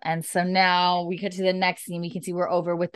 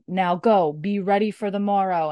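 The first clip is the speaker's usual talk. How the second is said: louder, higher rebel commander's order; commanding leader; 3 semitones higher, 6 dB louder than usual. Retold or imitated. Murtagh dismissing his regulators for the night, commanding order. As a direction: send the troops off with authority.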